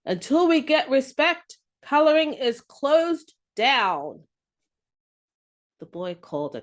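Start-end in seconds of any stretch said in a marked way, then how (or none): 0.1-4.3 defiant. Acted. Crayon Brown defiant to boy.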